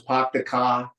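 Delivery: light imitation of a Boston accent, dropped r; mother's Boston accent, lightly mimicked, "Pop the car" with no r. Son recalls his Irish mother's Bostonian way, a light Boston accent. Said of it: "she had the, the greatest Bostonian accent".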